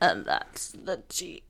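hammed-up slow impression; joking bad impression. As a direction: do a deliberately poor impression, drawn out. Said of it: "That was not a good impression".

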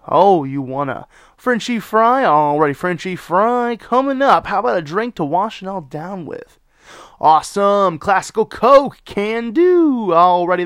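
high, loud chirpy service voice; drive-thru order voice. Shown as a demonstration. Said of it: "This is how I take orders at Sonic".

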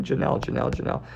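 Janelle whispered over and over, soft J; rehearsing Janelle softly to memorise it; practising Janelle. Shown as a demonstration. Host drilling a new name to memorise it, softly whispered. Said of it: "That sounds like you're French".

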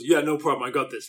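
mild mock low voice, barely dropped; understated imitation of a low tough voice. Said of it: "like, in a low voice".

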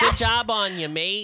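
put-on American doing a British accent; high, loud British cheer. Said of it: "in my American accent".

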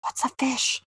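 low hushed whisper, retelling Casey. Retold or imitated. Retelling Casey's line to a co-host, whispered. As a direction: drop to a near-whisper. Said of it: "gets his voice really low and he whispers".

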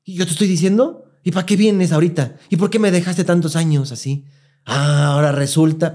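furious grandma telling off her dead husband; mock indignant rant; angry old woman. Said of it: "la señora estaba emputada".

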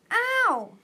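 high, loud yelp of pain; pained shriek. A narrator's reading. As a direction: shriek at a sudden hurt. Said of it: "Fate Speaker shrieked".

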